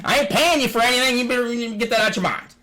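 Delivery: firm refusal. Retold or imitated. Telling the seller he won't pay, a loud high refusal. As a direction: shut the deal down hard.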